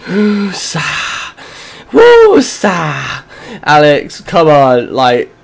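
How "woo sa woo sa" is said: self-calming breath. Real, not acted. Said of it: "Calm down".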